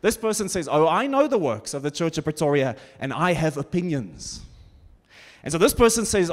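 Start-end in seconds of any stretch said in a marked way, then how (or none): 0.7-4.4 mock self-important critic, pitched lower; lightly hammed-up opinionated know-it-all; sarcastic armchair critic. Preacher imitates a critic of Pretoria's churches, sarcastic. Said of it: "I'm being sarcastic".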